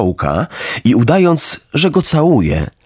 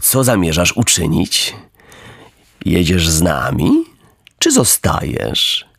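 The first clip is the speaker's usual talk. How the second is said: lowered fawning coachman's voice; oily coachman; 6 semitones lower than usual. Acted. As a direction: wheedle the puppet sweetly.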